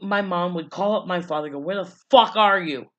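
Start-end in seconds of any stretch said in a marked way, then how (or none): 1.6-2.9 mock-irate mom, louder on the swear; punchy, raised-voice telling-off, acted out; retold angry demand. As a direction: imitate an exasperated mother demanding answers. Mother confronts absent father by phone.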